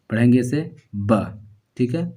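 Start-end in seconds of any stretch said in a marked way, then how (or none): 1.1-1.2 ب said quick and short. Shown as a demonstration. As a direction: clip the vowel of ب. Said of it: "اسے جلد پڑھیں گے". (جلد ب)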